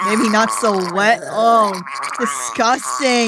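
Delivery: guttural, wet throaty R; throaty French r. Shown as a demonstration. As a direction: rasp the R from the throat. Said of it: "like coughing up phlegm".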